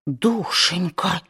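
a mild wounded whimper; tearful aunt. A narrator's reading. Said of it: "всхлипнула тётушка Питтипэт".

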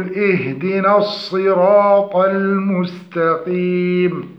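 slow tajweed chant of the verse; correct recitation. Shown as a demonstration. Teacher puts the corrected verse together, slow recitation. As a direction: recite with long, held vowels. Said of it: "فنقول".

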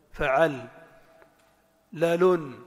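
فعل as fa'al, pause, لال as lalun; two separate beats on فعل and لال; syllable-by-syllable. Shown as a demonstration. Teacher shows vowel chunks, syllables set apart. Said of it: "فتحتان سكون".

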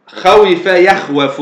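خوف يخوف slowly as kha-wi-fa, yakh-wa-fu; original form. Shown as a demonstration. Teacher showing the original pair, خوف يخوف slowly by syllable. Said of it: "هذا الأصل".

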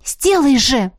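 demanding. A narrator's reading. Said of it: "потребовала я у Эммета".

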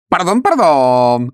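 drawn-out, hurt "pardon"; offended. A narrator's reading. Ametistov protesting his dignity, offended. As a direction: sound wounded and huffy. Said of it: "оскорблённо отвечал Аметистов".

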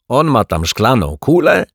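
laughing. A narrator's reading. Caretaker laughing at the fortune teller's crystal ball, mocking. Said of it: "zaśmiał się pan Mietek".

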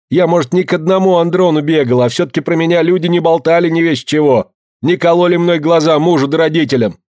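a high, hurried babble; rattling off. A narrator's reading. Mother flustered, babbling out what she just denied. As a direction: blurt it all out in a flustered rush. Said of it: "затараторила".

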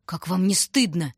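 expressive scolding. A narrator's reading. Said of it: "выразительно произнёс Мишка".

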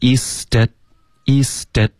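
East At- linked slowly as ees-dat; linked, voiced T. Shown as a demonstration. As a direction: run East At- together, T softened to D. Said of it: "会连读，t的音会浊化成一个的". (East At-慢速连读，t浊化成d)

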